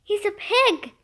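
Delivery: a restrained story-time exclamation; lightly acted yell of discovery; mild yell. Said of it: "she yelled".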